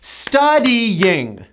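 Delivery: Studying as stu-dee-YING; Studying in three drawn-out syllables; strong Y. Shown as a demonstration. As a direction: push the Y in Studying. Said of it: "with a strong Y".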